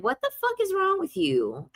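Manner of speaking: high-pitched, incredulous mock outrage; retold cussing out. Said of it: "I cussed his ass out".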